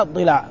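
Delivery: ضلع said dila', short i then short a; first vowel of ضلع is i, the lam takes a; kasra on dad, fatha on lam. Shown as a demonstration. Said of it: "الضلع بكسر الضاد وفتح اللام".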